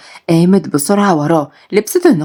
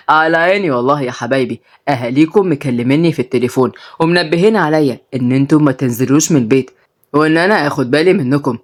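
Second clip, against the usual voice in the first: put-on lower, easygoing old man; old grandpa; 4 semitones lower than usual. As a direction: talk like a fond grandfather, low. Grandpa Helaly voiced.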